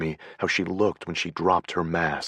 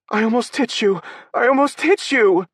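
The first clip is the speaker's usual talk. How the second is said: higher, louder, shocked gasp of words; horrified; 8 dB louder than usual. A narrator's reading. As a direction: horror at what she just did. Paige horrified after throwing lamp.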